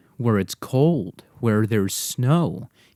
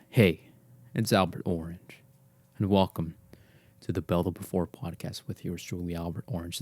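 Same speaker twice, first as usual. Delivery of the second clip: a run-through of his usual intro, fading softer; podcast intro; 4 semitones lower, 5 dB quieter than usual. Shown as a demonstration. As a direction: recite the old podcast opener. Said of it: "That's what I said, always".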